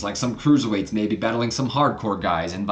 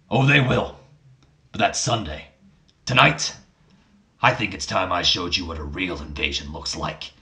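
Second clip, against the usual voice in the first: Vince McMahon; 4 semitones lower than usual. Acted. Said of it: "Vince looks him in the eyes and he goes".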